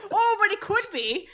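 hammed-up high British accent. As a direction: put on a mock British sex voice. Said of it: "is your sex voice British?".

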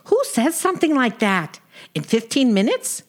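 lightly voiced exasperated wife; a hint of a fed-up Brooklyn wife; Sadie. Sadie complains about husband.

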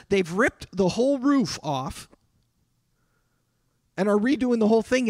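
wife calling in alarm about the roof. Retold or imitated. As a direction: hurry it out as the panicked wife on the phone. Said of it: "his wife called him and said".

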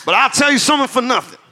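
put-on Deep South lawyer accent. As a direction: lay on a Deep South twang for the jury. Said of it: "in the style of a Deep South defense lawyer".

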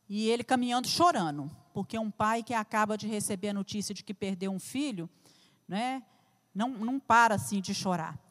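hushed, tender retelling of a grieving father's walk; soft intimate storytelling. Acted. Preacher pictures Jairo for the church, hushed and intimate.

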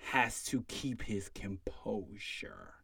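whispered, slow punchline; whispered slowly, as if letting them in on it; hushed aside. Real, not acted. Punchline about staying composed.

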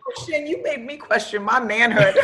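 retold through laughter; laughing quote. Retelling his teasing line to the host, laughing. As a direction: laugh as you quote him.

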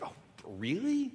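a mock scoffing "really?" swooping up high. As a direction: sneer it like the serpent mocking God. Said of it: "he sort of scoffs at God".

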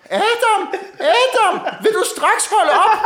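put-on an elderly boss calling a stop through laughter; Herbert Pundik impression. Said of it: "en meget karakteristisk stemme".

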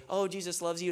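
throwaway blessing said without meaning it; casual cop-out. Retold or imitated. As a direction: toss it off like a routine line. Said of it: "it's kinda like a cop-out".

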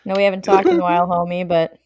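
lightly voiced deep movie voice; deep James Earl Jones voice. Voicing James Earl Jones answering.

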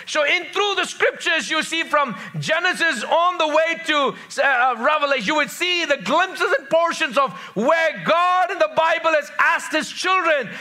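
high-pitched, ringing scripture proclamation; emphatic preaching. Real, not acted. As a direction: drive each phrase home like a preacher.

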